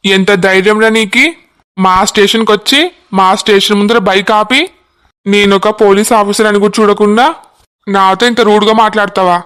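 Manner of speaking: a constable scolding youths for blocking the road; lightly voiced cop laying down the law; stern police constable. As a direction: tell them off with police authority. Constable angry at cheek.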